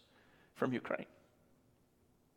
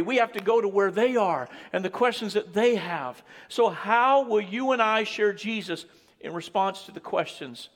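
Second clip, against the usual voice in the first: raised, driving sermon delivery; earnest preaching; 4 semitones higher, 4 dB louder than usual. Real, not acted. Preacher calling church members to share Jesus, earnest preaching. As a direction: urge the congregation on.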